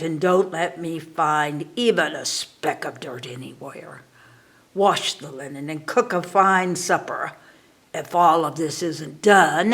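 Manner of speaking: lightly voiced witch, building to a loud threat; a hint of a bossy witch, ending menacing; commanding witch. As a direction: Baba Yaga orders the girl, then threatens her. Witch gives orders, threatens.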